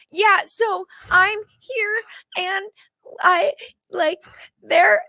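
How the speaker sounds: shaky, halting reporter on the verge of tears, high and slow; nervous rookie reporter. Retold or imitated. New reporter at a shooting scene, nervous and halting on Facebook Live. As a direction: stammer it out like a terrified first-timer on camera. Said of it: "I look like I'm about to cry".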